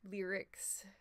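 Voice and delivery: breathy stage whisper on one word. Real, not acted. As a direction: whisper it like a secret.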